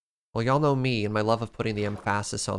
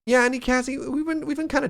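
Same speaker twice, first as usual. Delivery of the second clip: excited greeting; faster than usual. Real, not acted. Greeting a chat user.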